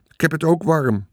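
put-on high boyish complaint; boy calling out. A narrator's reading. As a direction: call it out like a child. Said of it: "riep Michiel". (klagend roepend jongetje)

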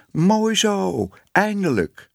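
high, delighted cheer; calling out. A narrator's reading. Cats calling out to Tibbe in the street, cheering. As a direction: call it out high in approval. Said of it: "ze riepen".

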